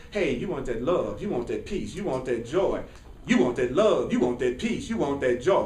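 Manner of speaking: low, lilting chant-like urging; loving inner voice. Acted. Inner voice offers love, peace and joy, low coaxing. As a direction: coax gently in a low, repeating singsong. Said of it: "listening to the voice that says".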